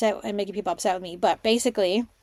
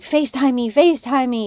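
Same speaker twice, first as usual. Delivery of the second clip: urgent excited demand; 3 semitones higher, 5 dB louder than usual. Retold or imitated. Retold urgent demand to partner.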